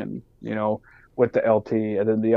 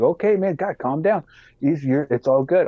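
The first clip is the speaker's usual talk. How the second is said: placating officer; 5 semitones higher than usual. Retold or imitated. Officer backing off from angry sergeant.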